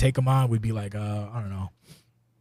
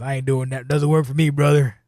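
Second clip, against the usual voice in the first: rising, louder wrestler protest; mock refusal; 2 semitones higher, 4 dB louder than usual. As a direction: play the indignant wrestler saying no. Acted wrestler refusing a booking.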